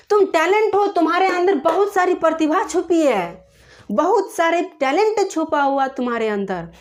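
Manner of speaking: high, loud motivating praise; rousing encouragement. Retold or imitated. Teacher telling the girl she is talented, rousing encouragement. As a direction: fire the child up with belief in herself.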